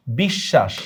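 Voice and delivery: বিশ্বাস said "bish-shash"; বিশ্বাস with silent ব and a double sh; doubled SH. Shown as a demonstration. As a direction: hold the sh twice in the middle of বিশ্বাস. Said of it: "দেখছো কয়বার উচ্চারণ করতে হইতেছে".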